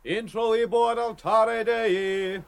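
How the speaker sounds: slow, high liturgical intoning; intoned. A narrator's reading. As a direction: intone it like a priest at the altar. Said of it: "held the bowl aloft and intoned".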